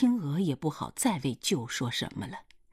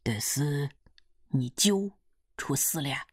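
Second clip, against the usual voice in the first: questioning father. Acted. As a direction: ask haltingly as the village father. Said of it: "爹就问他".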